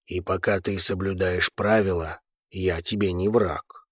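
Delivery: a big calm man stating fact; calm deep volcano. A narrator's reading. The volcano uncle calmly assures his nephew, deep and low.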